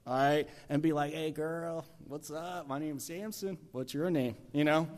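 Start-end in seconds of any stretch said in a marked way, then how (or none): 1.1-4.3 lightly voiced flirty Samson; a hint of a casual street-style come-on; colloquial pick-up. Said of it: "I'm gonna use the colloquial here".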